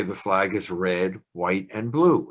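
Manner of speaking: red, white, and blue each given even weight; level cadence. Shown as a demonstration. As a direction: read the list in a steady, even rhythm. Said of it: "It's called level cadence".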